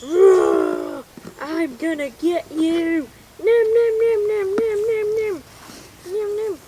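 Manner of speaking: loud, high hammed-up monster threat and chomping; mock-ferocious roaring and gobbling; big dinosaur roar. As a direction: lunge in as the hungry dinosaur. Hungry dinosaur attacks in play.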